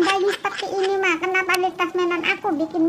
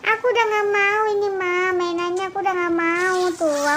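acted whining. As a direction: whine and plead for it, stretching word endings. Anak merengek minta mainan baru. (merengek manja)

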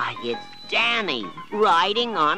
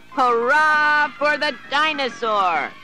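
much higher, louder cheer; cheering children; 7 dB louder than usual. A narrator's reading. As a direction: cheer the winner. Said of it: "the children cried".

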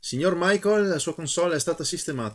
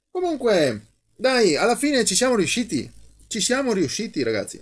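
excited; 7 semitones higher than usual. Real, not acted. Celebrating repair.

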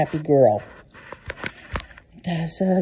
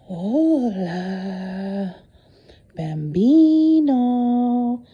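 drawn-out sing-song; 3 semitones higher, 5 dB louder, much slower than usual. Real, not acted. Calling the cat fondly.

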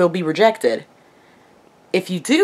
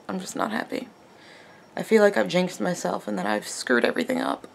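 quiet crying; 8 dB quieter than usual. Real, not acted. Rejected, sighing, on the verge of tears.

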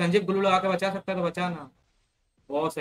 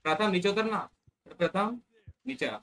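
calling out; 6 semitones higher than usual. Real, not acted. Calling dog down in game.

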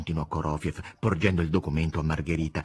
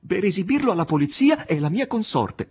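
firm; 10 semitones higher, 4 dB louder than usual. A narrator's reading. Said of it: "rispose con fermezza".

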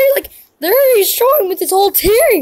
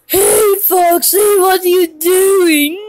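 calling out. Acted. Calls out to Foxy, then turns serious.

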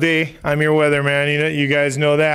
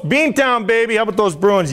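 pumped-up hype; 4 semitones higher than usual. Acted. Weatherman hyping Boston fans on air, pumped-up shout. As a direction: hype the crowd like a rowdy Boston fan. Hyped weatherman run-through bit.

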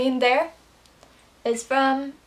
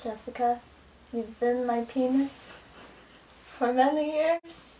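mock breakup; 4 dB quieter than usual. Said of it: "Pretend you're in a serious relationship".

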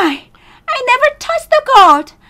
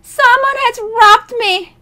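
very high-pitched distraught miser; wild cry. Acted. Robbed miser telling a passer-by, wild high cry. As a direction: cry out wildly in a high character voice. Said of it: "cried the miser wildly".

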